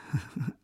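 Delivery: short, soft forced laugh; a brittle put-on laugh. A narrator's reading. Wife covers her husband's remark with a forced laugh. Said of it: "smála se nuceně".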